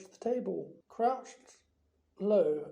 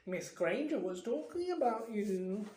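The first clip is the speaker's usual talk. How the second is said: playing shy, slightly higher; mock shy; 3 semitones higher than usual. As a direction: sly fake shyness. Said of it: "said Peeves shyly".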